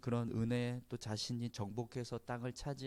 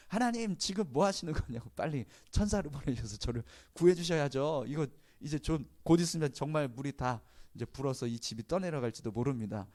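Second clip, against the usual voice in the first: mildly impassioned plea, rising high at the start; earnest pleading; 3 semitones higher, 3 dB louder than usual. Retold or imitated. Stranded man pleading with God to send angels, earnestly. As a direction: beg God earnestly, a touch urgent. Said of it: "간절하게 기도를 했대요".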